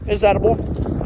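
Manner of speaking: talking with mouth full. Real, not acted. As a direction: speak around a mouthful of food. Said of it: "with my mouth full of food".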